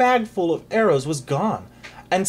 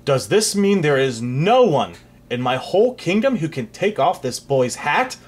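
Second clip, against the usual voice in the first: bellowing; 3 dB louder than usual. Acted. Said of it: "bellowed the king in a terrifying voice".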